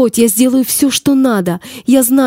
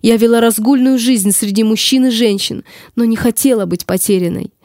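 tragic heroine sorrow. Acted. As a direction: plead your lost cause, raised.

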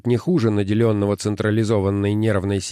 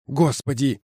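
groaning; 5 semitones higher than usual. Acted. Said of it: "простонал Симс".

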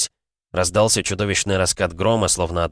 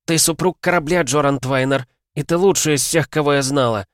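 high, raised-voice proclamation; fervent, emotional shout; impassioned declaration; 7 semitones higher, 4 dB louder than usual. A narrator's reading. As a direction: bestow the rank over the storm. Captain promotes him amid the storm.

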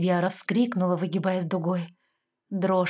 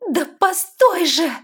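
high, loud, slow plea; pleading; 11 semitones higher, 10 dB louder, slower than usual. A narrator's reading. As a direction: beg him to stop. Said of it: "взмолилась девушка".

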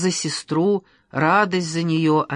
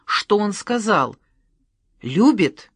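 higher, louder pressing "сказал"; impatient pleading; 4 semitones higher, 4 dB louder, slower than usual. A narrator's reading. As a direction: tug for the answer. Tatyana tugs sleeve eagerly. (нетерпеливо, настойчиво)

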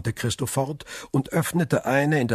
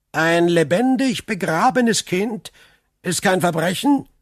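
raised, higher voice; indignant exclamation; 6 semitones higher, 4 dB louder than usual. A narrator's reading. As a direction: challenge them with outraged emphasis. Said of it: "rief der Graf". (empört ausgerufen)

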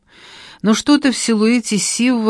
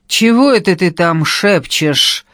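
calling out; 4 dB louder, slower than usual. Acted. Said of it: "окликнул меня Сивый".

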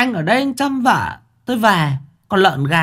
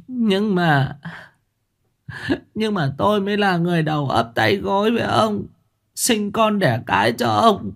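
sobbing complaint; 10 semitones higher than usual. A narrator's reading. Wife whimpers her grievances to husband, high tearful voice. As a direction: plead with sulky tears, pitched high. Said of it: "khóc nấc".

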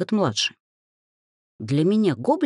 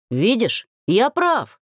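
gloating, rising to a higher cry; triumphant; 6 semitones higher, 3 dB louder, much slower than usual. A narrator's reading. Half-gnome gloats at the angry dryad, triumphant. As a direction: crow over being right. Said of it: "торжествующе провозгласил он".

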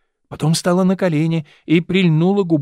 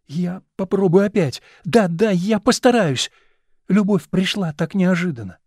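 put-on desperate young actress; 4 semitones higher than usual. Actress on the floor begging her lover for another chance, pleading. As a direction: win him back gently.

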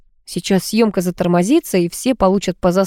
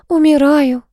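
higher, louder hammed-up groan; moaning; 8 semitones higher, 4 dB louder, slower than usual. A narrator's reading. Ada playing a dying patient, hammed-up moan. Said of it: "простонала Ада".

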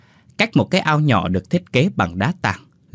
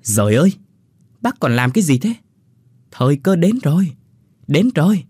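urgent pleading; 5 semitones higher, 3 dB louder than usual. A narrator's reading. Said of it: "nó kéo hẳn gã vào trong nhà mà khẩn khoản".

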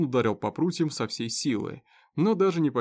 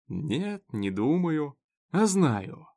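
drawn out; 4 semitones higher, much slower than usual. Acted. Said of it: "протянул Роджерс".

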